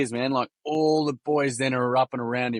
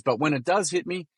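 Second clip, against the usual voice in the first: higher, lightly imitated Kiwi boy; Kiwi accent; 5 semitones higher than usual. Kiwi boy opens up to his mates, higher Kiwi accent. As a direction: lift the pitch into a Kiwi lad's voice. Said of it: "Excuse my Kiwi accent".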